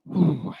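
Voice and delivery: out-of-breath exhale whew; breathless whew. Real, not acted. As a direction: puff out a tired whew. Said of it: "still panting".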